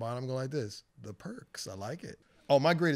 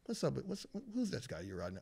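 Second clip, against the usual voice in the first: softly muttered aside; hushed cop impression; 9 dB quieter than usual. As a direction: imitate a cop asking on the sly. Cop confiding, acted out after "like this.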